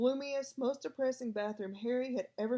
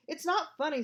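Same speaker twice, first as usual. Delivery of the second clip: louder, higher fierce retort; 6 semitones higher, 5 dB louder than usual. A narrator's reading. Boy snaps at laughing friend, fierce and loud. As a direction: snap back hard at the giggling. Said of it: "said Ron fiercely".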